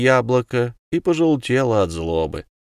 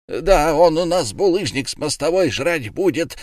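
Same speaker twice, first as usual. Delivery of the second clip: echoing shout; 6 semitones higher than usual. A narrator's reading. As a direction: repeat the threat boldly. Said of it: "повторил Лама".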